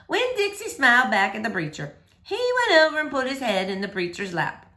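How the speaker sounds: gentle, lively read-aloud voice; story reading for children. A narrator's reading. Teacher reading a chapter book to boys and girls, lively read-aloud. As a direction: read it like story time for kids.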